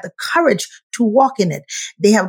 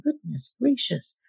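amazed onlooker; 4 semitones higher than usual. Retold or imitated.

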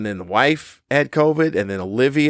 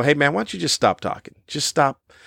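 imagined telling-off; 4 semitones higher than usual. Retold or imitated. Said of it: "just go".

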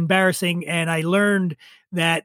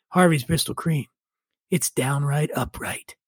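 slow, lower, smooth mock announcer read; old TV ad voice; 3 semitones lower, 3 dB quieter than usual. Recalling the sherry ad for the host, mock announcer voice. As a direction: sell it like a seventies sherry spot. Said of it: "the commercials would say".

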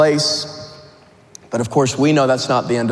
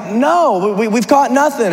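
higher-pitched, mild mock shout; shouting back; 7 semitones higher than usual. Fishermen answering a stranger on the beach, shouting back. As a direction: call a faltering reply across the distance. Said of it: "they're shouting back".

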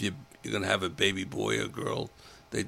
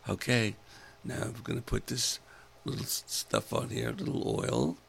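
sexy nurse voice; 4 dB quieter than usual. Retold or imitated. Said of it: "very sexy voice".

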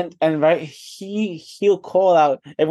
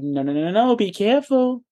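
mocking the professor; 5 semitones higher, much faster than usual. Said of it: "He's like".

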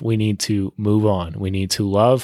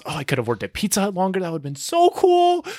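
mock dreamy inner voice; 8 semitones higher than usual. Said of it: "I was just having all these negative thoughts".

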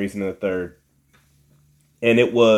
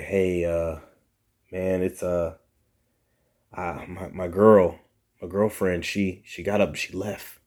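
hesitant excuse; 3 semitones lower, 5 dB quieter than usual. Retold or imitated. Employee phoning in a halting excuse.

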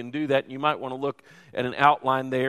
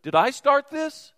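mock outburst; 10 semitones higher, 5 dB louder than usual. Imitating a stressed person's outburst.

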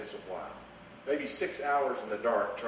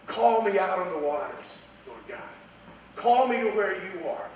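fervent prayer; 5 semitones higher, 4 dB louder than usual. Acted. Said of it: "That is a promise".

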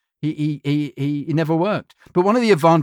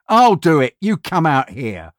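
firm takeover; 3 semitones higher, 5 dB louder, slower than usual. Retold or imitated. CEO takes over the read.

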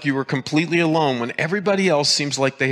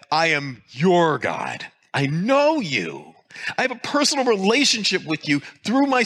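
voicing God tenderly; 5 semitones higher than usual. Preacher voicing God to his frightened congregation, fervent and tender. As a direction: speak as God reassuring his own child.

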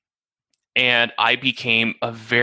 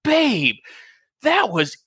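raised, amused voice of his wife; wife's voice; 10 semitones higher than usual. Retold or imitated. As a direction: quote her teasing him. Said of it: "and she's like".

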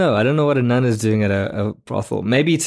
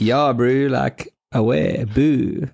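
put-on Afrikaans accent; 2 semitones higher, much slower than usual. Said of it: "a South African ghost would sound like".

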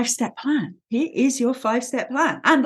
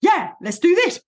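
eager Roo; 7 semitones higher than usual. Retold or imitated. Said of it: "Little Roo is the one going".

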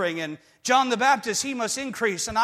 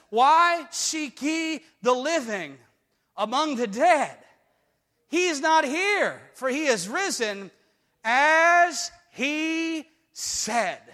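voicing the angel; 4 semitones higher, slower than usual. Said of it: "And he says".

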